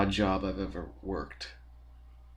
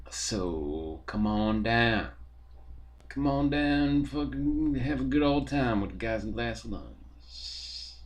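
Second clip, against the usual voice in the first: announcer voice; slower than usual. Pretend. Band show plug.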